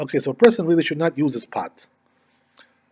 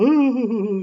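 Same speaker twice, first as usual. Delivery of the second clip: a short high imitated wail of "Ooh"; mock sob; 8 semitones higher than usual. Rabbi imitating the crying lady, mock sob. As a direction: mimic the lady's crying with a quick "Ooh". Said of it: "and she's, like, crying".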